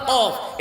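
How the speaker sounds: "কফ" struck hard at the back of the mouth; uvular "কফ". Shown as a demonstration. Preacher shows the two-dot letter, "কফ" knocked on the uvula. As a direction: hit "কফ" against the uvula like Arabic qaf. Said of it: "আলা জিভের মধ্যে ঠাস করে বাড়ি খায়".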